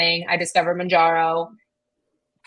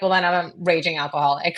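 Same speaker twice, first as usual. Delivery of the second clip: laughing; 3 semitones lower than usual. Real, not acted. Joking confession about drinking.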